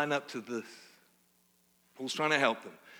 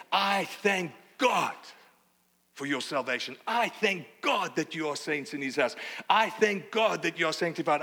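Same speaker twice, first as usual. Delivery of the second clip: Paul's emphatic thanks; 3 semitones higher than usual. Acted. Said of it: "Paul is able to say".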